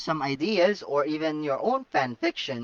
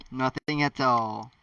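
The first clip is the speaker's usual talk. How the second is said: devilish grin; 2 semitones lower, slower than usual. Acted. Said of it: "with a devilish grin".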